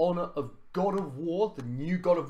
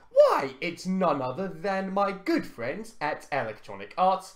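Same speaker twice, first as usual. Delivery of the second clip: heavily sarcastic, swooping, grand announcer-style delivery; 3 dB louder than usual. Speaker introduces the gaming screw-up of the week, sarcastic. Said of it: "Note the sarcasm".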